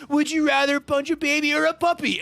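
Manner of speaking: flat, emotionless delivery; super deadpan. Retold or imitated. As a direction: read it with zero emotion. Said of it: "super deadpan".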